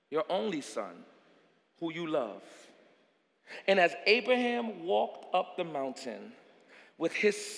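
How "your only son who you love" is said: low, soft words of God; quietly heavy, voicing God's demand; hushed, grave. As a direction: let it sink low and soft. God asks Abraham for son.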